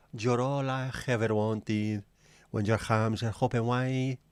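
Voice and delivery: sung slowly in a hammed-up Mexican accent; bad Mexican accent. Host demoing the Mexican karaoke night, slow hammed-up Mexican accent singing. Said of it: "sing normal songs but in a really bad Mexican accent".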